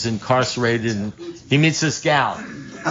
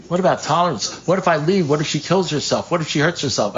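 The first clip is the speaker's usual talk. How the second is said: higher-pitched string of pleading what-ifs; mock the friend's worried objections, pitched up; agitated protest; 5 semitones higher than usual. Friend protesting advice to leave his girlfriend, pleading and high.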